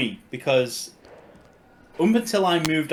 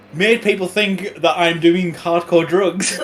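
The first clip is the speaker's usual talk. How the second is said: slow, louder punchline; 4 semitones higher, 5 dB louder, slower than usual. Real, not acted. Punchline of the crack story.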